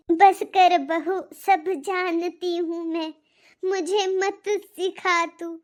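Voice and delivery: loud, slow, scolding; angry rebuke. Acted. Grandmother silences her daughter-in-law with a loud rebuke. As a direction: put her firmly in her place.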